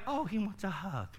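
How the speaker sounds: soft, laughing mock reply; preacher mocking a naive listener, laughing; mock happy reaction. Shown as a demonstration. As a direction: laugh it off as if charmed. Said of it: "Would you be like".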